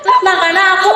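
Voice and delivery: words broken by a real laugh; real laughing Ngapak Javanese; laughing while talking. Real, not acted. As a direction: giggle through the line in Ngapak Javanese. Laughing through the demo.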